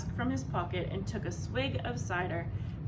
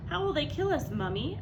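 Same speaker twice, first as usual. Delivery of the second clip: frightened little fox; 6 semitones higher, 4 dB louder than usual. Acted. Small fox voiced in story.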